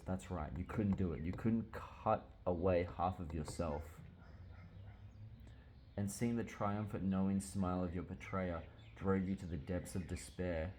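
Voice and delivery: soft, subdued reading aloud; story reading. A narrator's reading. God Hand referring to the vision, soft story reading. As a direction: read it out softly and solemnly.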